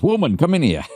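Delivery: hammed-up call across the house; gruff call. Gruff man calls his wife.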